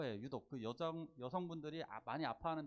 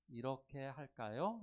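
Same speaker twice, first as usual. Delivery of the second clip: gentle suggestion; 3 semitones lower, slower than usual. Shown as a demonstration. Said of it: "이렇게 권유하는 거예요".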